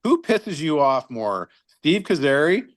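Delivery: slow, measured, innocent question; calm, teasing question to the coach. Retold or imitated. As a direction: ask it slowly and sweetly. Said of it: "very calm".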